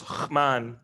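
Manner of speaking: "רחמן" with no vowel between the h sound and m; dropped vowel. Shown as a demonstration. Lecturer showing a deleted vowel, "רחמן" said with nothing before the m. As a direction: run the throaty h of "רחמן" straight into "man". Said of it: "There's just nothing there".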